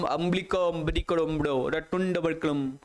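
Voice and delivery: lightly imitated film tribesman's invented language; mumbo-jumbo parody of a movie line; playful, hinted imitation of made-up film speech; Baahubali character's gibberish. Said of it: "rotunda वो देखिए बाहुबली, क्या पता क्या ही क्या ही बोलता वो".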